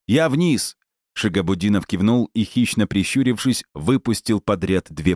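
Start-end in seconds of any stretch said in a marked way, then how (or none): 0.1-0.8 high, raised call; hurried shouted call. A narrator's reading. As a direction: call it back while running off. Garik shouts while running.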